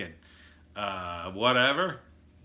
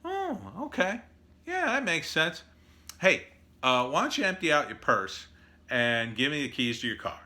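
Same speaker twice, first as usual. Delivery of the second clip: higher, dismissive mock voice; mock robber; 4 semitones higher than usual. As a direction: brush off the therapist, then demand. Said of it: "It's gonna say".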